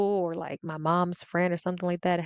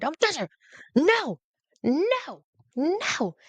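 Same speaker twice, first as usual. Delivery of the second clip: put-on a little kid shouting to protect her mom; panicked child yelling; 7 semitones higher, much slower than usual.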